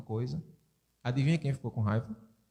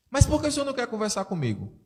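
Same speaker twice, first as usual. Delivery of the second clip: high, fast, louder daughter's demand; insisting daughter; 6 semitones higher, 4 dB louder, faster than usual. Retold or imitated. Daughter insists her father talk to her, high and fast. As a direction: push the question high and quick.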